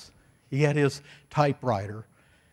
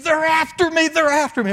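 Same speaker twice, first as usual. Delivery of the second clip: high-pitched reenacted cry of alarm; screaming in panic; 13 semitones higher, 5 dB louder than usual. Pastor retelling how a hippie burst into the office, screaming. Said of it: "he was screaming".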